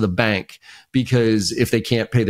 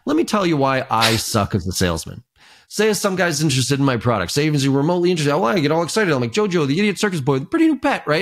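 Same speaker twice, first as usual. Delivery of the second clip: mock excited ramble; 5 semitones higher than usual. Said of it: "He goes".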